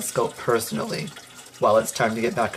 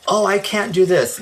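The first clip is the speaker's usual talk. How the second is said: whiny mock excuse; 5 semitones higher than usual. Mocking people's excuses.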